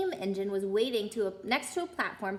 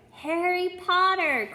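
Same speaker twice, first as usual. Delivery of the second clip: slow, loud, high amazed chorus; 8 semitones higher, 6 dB louder, slower than usual. A narrator's reading. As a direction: announce it together, astonished. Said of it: "chorused the twins".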